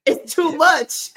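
high, loud, strained cartoon cry; hammed-up struggling-to-breathe voice; Trunks. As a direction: overwrought anime plea, gasping for air. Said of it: "She sounds like that".

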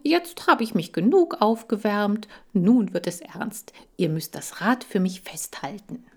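mildly put-on cheerful tone; a touch of fake brightness; forced cheer. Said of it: "sagte ich betont fröhlich". (leicht gespielt fröhlich)

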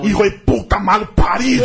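playful Spanish curse, laughing; laughing mock Spanish insult. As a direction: shout it out while laughing.

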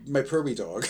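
ordinary delivery

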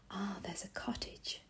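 understated storybook panting. A narrator's reading. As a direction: gasp it out quietly, as if tired from running. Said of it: "suddenly panted Binkety".

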